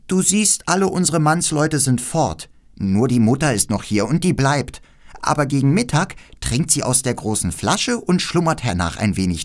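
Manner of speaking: leicht angehobene, lebhafte Mädchenstimme; freches Räubermädchen. Acted. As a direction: als keckes Räubermädchen leicht aufdrehen. Voices the robber girl. (leicht gespieltes, freches Räubermädchen)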